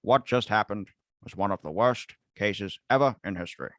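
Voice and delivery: lightly voiced JFK, a president's address; a hint of Kennedy giving a solemn speech. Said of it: "let me do it in my J F K voice".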